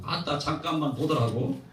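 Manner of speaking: slow, drawn-out Jeolla accent; Jeolla dialect. Shown as a demonstration. Preacher showing how Jeolla asks for a moment, Jeolla accent. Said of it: "전라도는".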